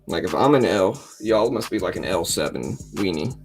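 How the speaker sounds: ordinary talk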